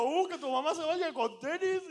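high, loud, slow taunt; drawn-out heckler's tease; mock goading. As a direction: stir the fight up, on the edge of laughter. Goading drivers with mama insults.

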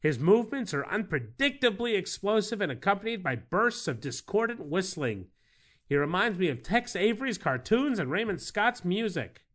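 formal reading. Acted. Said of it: "You sure can deliver the written word".

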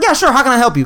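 high-pitched eager service voice; helpful customer service. Retold or imitated. Answering a customer's question about tile, high and eager to help. Cheerful reply to customer, retold.

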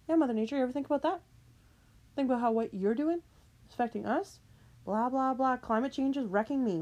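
high, scolding rant. Real, not acted.

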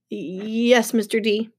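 hesitant, stuttered assent; nervous stammer. Acted. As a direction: stick on the first sound before agreeing. Grover cringes before his boss.

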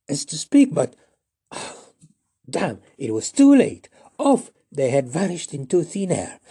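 usual speaking voice

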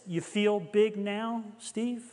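slow, pointed questioning with gentle reproach; lightly voiced divine rebuke, drawn out; measured, searching challenge; voice of conviction. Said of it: "I kinda heard something like this".

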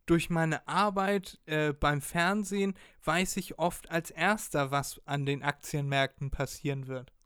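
dodgy salesman. Retold or imitated. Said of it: "so richtig unseriös".

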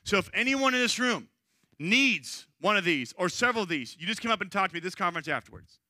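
rally the room, fired up; fired-up speaker. Retold or imitated. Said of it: "he's pretty fired up".

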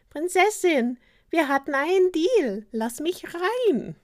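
high, loud frog character voice; frog calling out. A narrator's reading. Frog demands that the princess let him in, calling out. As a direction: call loudly through the door, stretching the end. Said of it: "der Frosch meldete sich".

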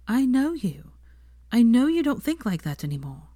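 lightly voiced young woman pleading her belief; Hermione's voice. A narrator's reading.

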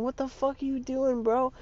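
high-pitched incredulous questioning; mock bewilderment. Viewer wondering at guys in the video, bewildered. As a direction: voice shoots up in baffled disbelief. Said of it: "that you're wondering".

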